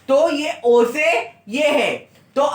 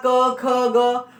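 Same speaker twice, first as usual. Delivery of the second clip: slow recital; much slower than usual. Shown as a demonstration. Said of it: "एक एक अक्षर में पढ़ा".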